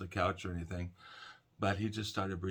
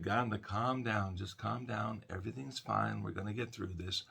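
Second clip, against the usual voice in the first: soothing, talking him down. Retold or imitated. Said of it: "tried to talk him down".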